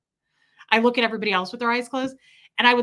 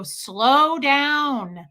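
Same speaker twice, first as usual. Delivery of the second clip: louder, drawn-out imitated request; slowing someone down; 3 semitones higher, 5 dB louder than usual. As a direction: stretch SLOW out as an instruction. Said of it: "because you couldn't talk this fast".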